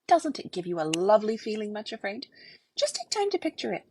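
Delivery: mocking, taunting villain voice; sly cruel taunting voice; gloating tormentor. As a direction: sneer at her like a cruel bully. Craven Fear taunting her.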